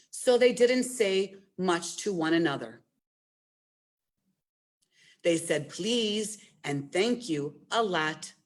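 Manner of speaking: gentle picture-book read-aloud; reading to children. Acted. Librarian reads Accordionly to children, storytime voice. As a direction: tell the story to a room of kids.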